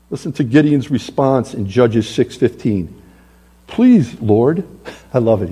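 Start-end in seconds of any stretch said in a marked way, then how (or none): 3.6-4.6 begging. Acted. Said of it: "he's begging".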